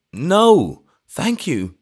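put-on high, loud, over-eager old vicar; eager vicar turning down wine, high; hysterically eager refusal. A narrator's reading. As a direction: rush to refuse, overeager. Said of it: "with that hysterical eagerness".

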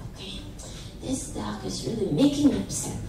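low, soft, understated impatience; mildly impatient. Acted. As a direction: grumble it quietly as an impatient boy. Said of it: "Jack is a little bit impatient".

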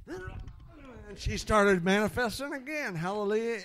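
high, slow and loud, building up; the preacher acts out the demon manifesting again, rising in excitement; excited. Real, not acted. The preacher tells the church the demon came back, loud and drawn out.

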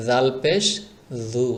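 জু with a gentle, lisped voiced th; soft জাল. Shown as a demonstration. Teacher repeats for learners, জু soft and gentle. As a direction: let the consonant of জাল buzz softly. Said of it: "নরম করে".

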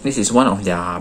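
words slightly muffled by food; talking while chewing. Real, not acted. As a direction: mouth partly full of food. Seen 0: Bit sandwich before; food seen on teeth, cheeks full while talking.

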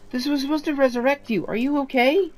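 distressed. Acted. Voicing Sal's shocked friend.

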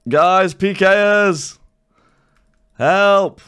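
high, drawn-out cry to teammates; calling for help. Real, not acted. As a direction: call out slowly and high for backup. Calls teammates as attackers come.

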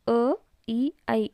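"ಅ, ಇ, ಐ" as separate vowels: uh, ee, eye; "ಅ, ಇ, ಐ", each vowel sound set apart; letter-sound demo. Shown as a demonstration. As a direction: sound out "ಅ, ಇ, ಐ" one by one. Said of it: "ಈ ಮೂರು ಅಕ್ಷರ ಬರ್ತವೆ ಇದರಲ್ಲಿ".

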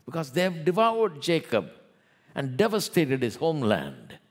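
preacher voicing an aggrieved people's prayer; fervent prayer reading. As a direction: cry it out as a pleading prayer. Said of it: "they are praying, saying".

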